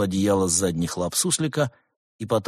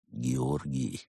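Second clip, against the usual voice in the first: lower, soft threatening name; quiet menace; 8 semitones lower, 8 dB quieter than usual. A narrator's reading. Cat monk quietly threatening the gopher. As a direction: say his name slowly like a warning. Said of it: "произнёс он тихо и пугающе".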